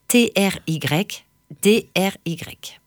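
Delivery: whispered spelling, slow; whispering. Shown as a demonstration. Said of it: "spells the app name". (épeler en chuchotant)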